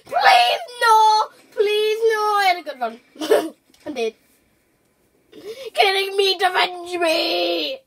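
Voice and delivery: hammed-up dying plea; overacted death scene. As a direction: ham up a dramatic death. Dramatic in-game death.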